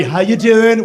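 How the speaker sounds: mock upper-class British greeting; Downton Abbey accent. British person greets us, Downton Abbey accent. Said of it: "They come in Downton Abbey".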